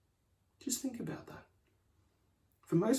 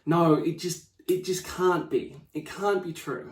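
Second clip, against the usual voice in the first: retold panic; 4 semitones higher, slower than usual. Panicked client telling her coaches, in mock distress. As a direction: play the client's distress, mildly. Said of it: "She's all in a panic".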